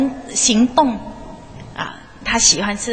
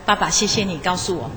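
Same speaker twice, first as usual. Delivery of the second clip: son's thanks, said lower and softer; quietly moved, the 爸 gently leaned on; touched; 4 semitones lower, 4 dB quieter than usual. Retold or imitated. Son thanking his father for saying I love you, touched and soft. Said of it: "他儿子很感动说".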